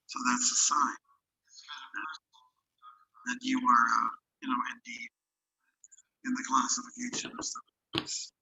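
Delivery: glitchy robotic audio; choppy digitally distorted speech. Real, not acted. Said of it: "mechanical sound, like robotic sound".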